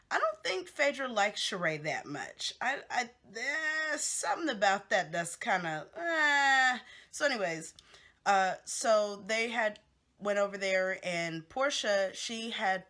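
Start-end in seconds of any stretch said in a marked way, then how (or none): 6.0-6.8 drawn-out, louder, higher "ehhh"; long skeptical groan of "eh"; doubtful "eh". Real, not acted. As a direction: voice your doubt with a long, loud "eh". Noise of doubt about the friendship.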